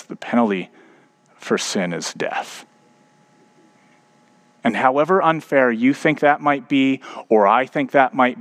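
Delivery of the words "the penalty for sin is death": a quiet, grave verdict from the judge; God the judge. Retold or imitated. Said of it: "And God says".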